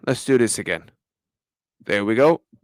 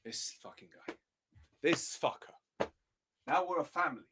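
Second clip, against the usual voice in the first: muttered curses; 20 dB quieter than usual. Real, not acted. Muttering insults at the manager's quote.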